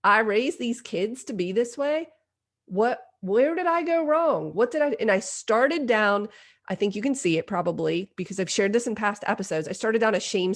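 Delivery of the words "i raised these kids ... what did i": panicked self-questioning. Retold or imitated. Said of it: "I'm like".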